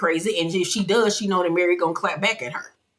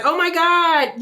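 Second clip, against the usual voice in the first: mock excited gasp; 11 semitones higher, 5 dB louder, slower than usual. Brittany excited.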